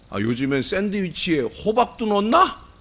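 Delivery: high-pitched, spiteful jeering.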